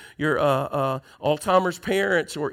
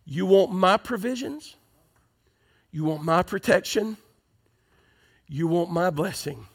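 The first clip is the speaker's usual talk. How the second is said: voicing Satan; 3 semitones lower than usual. Preacher voices Satan tempting the crowd, lightly voiced devil. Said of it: "This is Satan, Brother David, saying".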